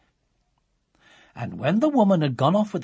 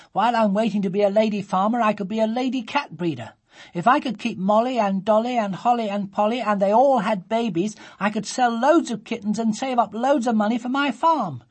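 put-on high, eager little girl voice; a girl listing her kittens, high and bright; young Sophie; 8 semitones higher, 4 dB louder than usual. A narrator's reading. A little girl explaining her kittens to mother, high eager voice. Child voice in story.

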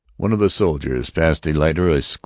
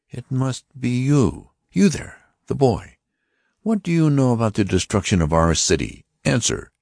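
high, stern voice of an alien officer; Martian officer; 9 semitones higher than usual. Acted. Martian officer warning the passengers, stern and high. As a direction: announce it like a cold interrogator. Lighter accuses the boy.

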